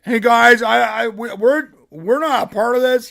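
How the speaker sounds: whiny nervous plea; mock timid husband begging; meek husband. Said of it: "her husband goes on and be like".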